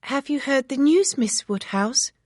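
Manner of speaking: put-on high eager young girl's call; breathless eager maid; excited cry. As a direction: burst in with the news. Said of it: "she cried".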